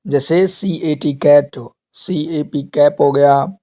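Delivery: each word said slowly and clearly, कैट and कैप with a hard k; teacher sounding out कैट and कैप slowly; slow word demo. Shown as a demonstration. Teacher reading example words to pupils, slow and clear. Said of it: "नीचे दिए गए word के अंदर हम देखेंगे".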